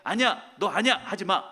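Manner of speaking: a firm divine no; stern refusal. Acted. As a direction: say no as God would, firmly. God refusing David's request.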